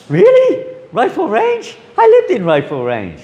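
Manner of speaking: can't believe they lived on the same street; thrilled disbelief. Retold or imitated.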